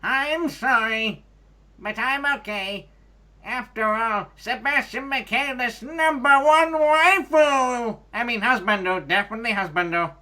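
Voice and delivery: high gushing anime fangirl; high excited fangirl. Acted. Fangirl character in reading.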